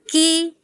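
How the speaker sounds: KI with an ordinary front k; forward kaf. Shown as a demonstration. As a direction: place KI a little forward, held. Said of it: "kaf sedikit di depannya".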